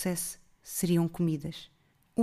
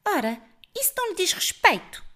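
jovem altiva; 11 semitones higher, 4 dB louder than usual. A narrator's reading. Haughty girl answers old woman.

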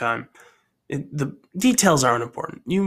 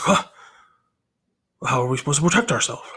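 silly gang voice; much faster than usual. Acted. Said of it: "I don't know why I did that voice".

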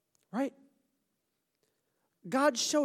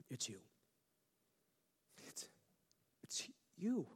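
much softer, whispered it's you; intimate whisper; 4 semitones lower, 12 dB quieter than usual. Acted. Pastor telling one doubter it's them, soft whisper. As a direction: lean in and whisper it to one person.

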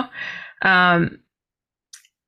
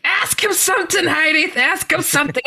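higher, eager push to herself; urgent self-urging; 10 semitones higher than usual. Retold or imitated. Before he leaves, urging herself eagerly. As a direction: prod yourself to speak up.

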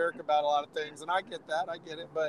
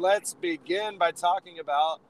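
raspy, worn-out throat; talking through a sore throat; hoarse voice. Real, not acted. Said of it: "got a little crumble crumble going on there".

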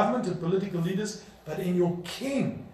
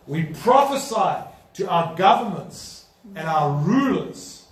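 fervent prayer. Acted. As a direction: pray with conviction for the rulers. Pastor leads prayer.

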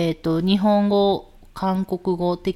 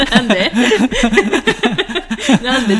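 bursting out laughing, louder; loud laughter; 3 semitones higher, 8 dB louder, much faster than usual. Real, not acted. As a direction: laugh through the words. Laughing at husband's story.

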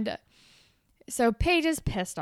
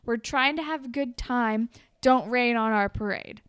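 a touch of a fed-up friend; mock snapping; 2 semitones higher than usual. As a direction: tell her off, half-joking. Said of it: "She's like".

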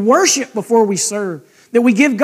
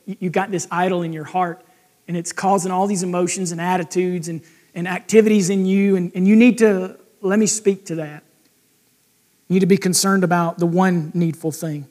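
gentle voice; 3 semitones lower than usual. Retold or imitated. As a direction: correct him tenderly, like a patient friend. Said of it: "Christ comes to us with a gentle voice".

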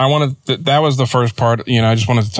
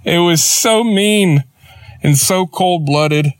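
higher, slow words through leftover laughter; still laughing; 7 semitones higher, slower than usual. Real, not acted. Praising wife's joke, still laughing. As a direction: talk while still giggling. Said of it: "I lost it laughing".

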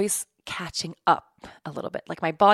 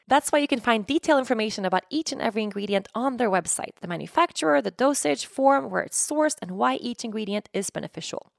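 scripted podcast ad read with lifted phrase openings; polished, evenly paced promotional read; sponsor ad read; 3 semitones higher than usual. Real, not acted. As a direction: read it like a host's sponsor message, each phrase starting up and stepping down. Reads a sponsor ad.

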